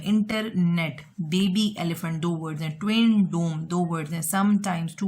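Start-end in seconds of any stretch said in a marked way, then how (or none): 0.0-1.0 इंटरनेट said very slowly, each part drawn out; slow spelled-out word. Shown as a demonstration. Teacher slowly repeating इंटरनेट for students learning compound words. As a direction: stretch इंटरनेट slowly so students hear its two halves. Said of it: "इंटरनेट दो words को मिला हुआ है".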